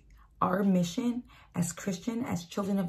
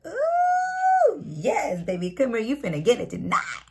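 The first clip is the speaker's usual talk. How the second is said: high squeal on ooh, then playful; hammed-up thrill at the offer; mock-excited date; 4 semitones higher, 4 dB louder, slower than usual. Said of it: "You're like".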